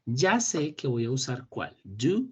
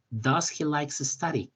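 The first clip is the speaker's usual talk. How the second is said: slowly reading a student's answer; 2 semitones higher, much slower than usual. Retold or imitated. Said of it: "Kevin nos pone".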